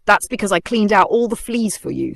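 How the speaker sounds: bright, proud little boast; proudly. A narrator's reading. Mouse proudly tells the lion, lightly voiced pride. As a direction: puff up the chest as you say it. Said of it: "said the mouse proudly".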